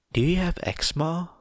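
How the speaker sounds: high, quick worried mum question; motherly concern. Acted. Mum fussing over a stranger's itchy neck.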